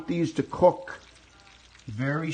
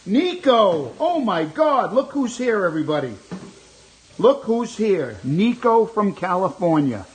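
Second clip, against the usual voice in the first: excited greeting; 3 semitones higher, 6 dB louder than usual. Real, not acted. Greeting returning viewer excitedly.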